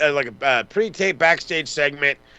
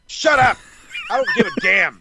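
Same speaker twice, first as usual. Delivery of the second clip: shut up outburst; 10 semitones higher than usual. Real, not acted. Podcaster snapping at Wheeler Yuta's complaint, sudden high shout. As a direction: cut him off with a yelled dismissal.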